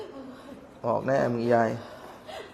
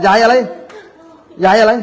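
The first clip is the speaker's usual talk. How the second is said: demanding; 6 semitones higher, 4 dB louder than usual. Real, not acted. Demanding an answer from grandma.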